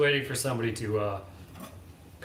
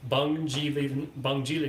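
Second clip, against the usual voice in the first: put-on Swedish accent; 3 semitones higher than usual. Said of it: "really weird Swedish accent".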